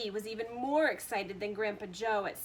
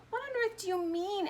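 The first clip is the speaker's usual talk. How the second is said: sharp; 10 semitones higher than usual. A narrator's reading. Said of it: "asked Mister T V sharply".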